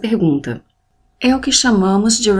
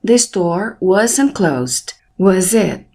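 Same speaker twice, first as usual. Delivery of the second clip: slow model sentence, voice raised on final "it"; deliberate, slow statement, then "it" raised as a question; rising intonation; much slower than usual. Shown as a demonstration. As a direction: lift "it" at the end, truly asking. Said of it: "Rising intonation".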